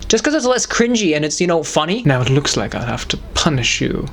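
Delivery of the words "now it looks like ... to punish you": British gentleman. Acted.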